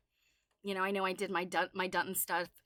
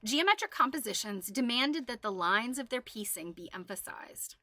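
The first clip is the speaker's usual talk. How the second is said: frog in throat. Real, not acted. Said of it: "I got a frog in my throat".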